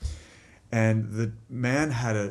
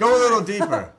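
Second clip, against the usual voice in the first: loud, raised mock command; shouted order; 12 semitones higher, 9 dB louder, faster than usual. Uncle sending nephew further under the house, hammed-up holler.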